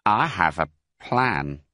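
slow, sly announcement; Bean. Acted. Bean telling the farmers his plan, slow and sly. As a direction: draw it out cunningly. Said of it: "he said".

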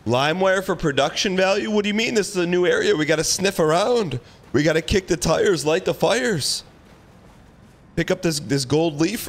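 excited. Real, not acted. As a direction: hype up the new area. Hyped exploring new area.

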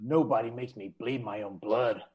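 low, soft deadpan movie line; lightly voiced dodgeball coach line; movie quote. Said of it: "Do it again once more".

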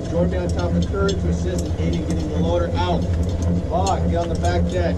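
loud tank commander orders; loud crew commands. Acted. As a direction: shout orders over the engine. Drill, commanding crew loudly.

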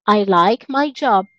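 slowed repeat for the class; careful teacher modelling; slow model sentence. Shown as a demonstration. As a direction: say it again slowly for learners. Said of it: "teacher repeats slowly".

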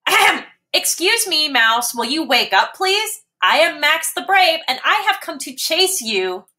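high, proud little kitten. Acted. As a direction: announce yourself grandly like a kitten. Max announces himself.

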